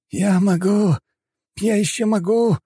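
high, strained defiant cry; stubborn, high-pitched yell; desperate insistence. Acted. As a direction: force it out refusing to give up. Beaten elder insists he can fight.

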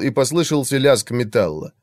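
ordinary delivery, nothing marked

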